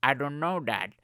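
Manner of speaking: put-on assistant voice; Alexa. Smart speaker stumped by opinion question, assistant impression. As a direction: imitate a device failing to answer. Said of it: "And she's like".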